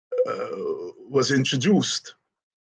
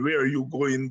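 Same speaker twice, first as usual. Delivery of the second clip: ordinary delivery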